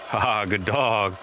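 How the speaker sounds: low, drawn-out praise for the dog; pleased, unhurried encouragement to a puppy; encouraging praise. Real, not acted. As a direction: praise the dog slowly and warmly. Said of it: "okay to give words of encouragement".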